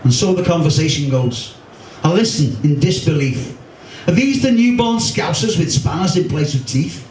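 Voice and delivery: poem read to a crowd, wry and rueful; poem recital. Acted. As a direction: recite the verse with old-school pride. Resumes the poem.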